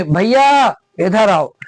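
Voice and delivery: slow call with the last vowels drawn out; "आओ" held long as if calling someone far away; calling from afar. Shown as a demonstration. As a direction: call "भैया इधर आओ" across a distance, stretching the ends. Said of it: "अंतिम वर्ण पे थोड़ा ज्यादा जोर देते हैं".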